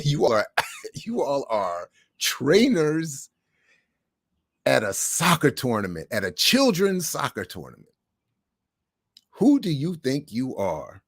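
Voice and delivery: retold rebuke to the trainers, laughing; laughing through a retold scold. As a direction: giggle while repeating the rebuke.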